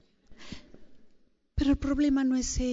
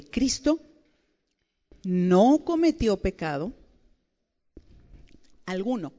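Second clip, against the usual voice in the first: slow reading; 2 semitones lower than usual. Shown as a demonstration. Preacher reading scripture slowly to the women. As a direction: read it slowly, word by word, leaning on cometió. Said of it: "lo voy a leer lentamente".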